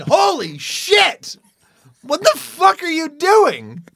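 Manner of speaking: high and slow, stunned disbelief; drawn-out astonished swearing; shocked outburst. Retold or imitated. Imagined neighbor, startled by him in the tree, slow and shocked. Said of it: "I didn't get a".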